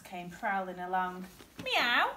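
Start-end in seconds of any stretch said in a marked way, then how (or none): 1.6-2.1 high, loud rising meow; cat's meow. A narrator's reading. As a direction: inquisitive storybook cat. Cat voiced in story.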